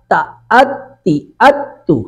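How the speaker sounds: تا، اتی، اتو spoken slowly, each syllable drawn out; teacher slowly drilling shadda syllables; slow sounding out. Shown as a demonstration. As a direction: stretch تا then blend اتی and اتو. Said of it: "ایک مرتبہ حمزہ کے ساتھ".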